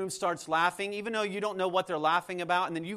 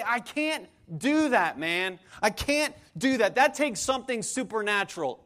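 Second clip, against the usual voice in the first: acted pleading objection, pitched up; exasperated protest; 3 semitones higher, 4 dB louder than usual. Preacher acts a listener overwhelmed by the demand, exasperated protest. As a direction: protest that it's beyond you.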